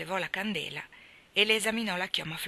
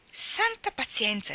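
slow, higher, drawn-out gasp of disbelief; astonished exclamation; 6 semitones higher, slower than usual. Acted. Marilla finds Anna face-down on her bed, astonished. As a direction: exclaim it, stunned and dragging each word. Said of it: "esclamò allibita".

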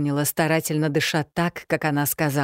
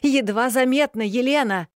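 sharp rebuke; 8 semitones higher than usual. A narrator's reading. The stranger scolds Elena for breathing, higher and sharp. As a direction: snap at her to obey. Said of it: "прикрикнула на меня незнакомка".

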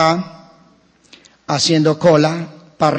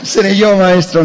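mock guilty question; 2 semitones higher, 5 dB louder than usual. Congregant quoted, acting guilty.

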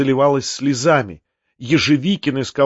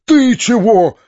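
high, loud, sharp demand; shouting; 9 semitones higher, 6 dB louder, slower than usual. A narrator's reading. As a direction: shout it at the servant. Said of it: "закричал он". (резкий окрик)

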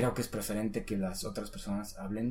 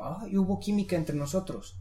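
example exclamation; 3 semitones higher, 3 dB louder, slower than usual. Pretend. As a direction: act out an excited remark, stretching the English. Teacher voices an example exclamation.

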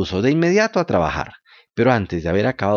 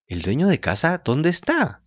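surprised; 5 semitones higher than usual. Acted. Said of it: "dijo Pinocho asombrado".

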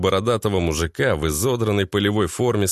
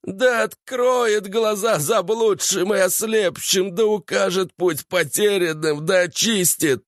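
higher, slow zealot chant; fanatic preacher; 9 semitones higher than usual. A narrator's reading. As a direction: rant it like a cult preacher. Fanatic keeps yelling prayer.

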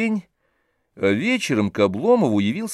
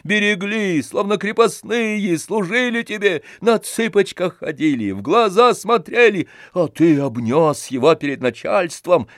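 higher, loud hectoring rant; angry demand; 6 semitones higher, 4 dB louder than usual. A narrator's reading. Tarantyev demands a bill of exchange, loud and angry. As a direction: demand it with fist on table.

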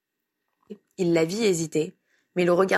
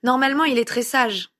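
raised, flustered, breathless excuse; out of breath; 6 semitones higher, 3 dB louder than usual. A narrator's reading. Grandmother excuses the runaway boy, still out of breath. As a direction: explain while still winded. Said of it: "en arrivant essoufflée".

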